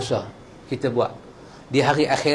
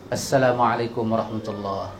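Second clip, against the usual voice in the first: soft salam demo; 7 semitones lower, 5 dB quieter than usual. Shown as a demonstration. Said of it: "Bagi salam terus".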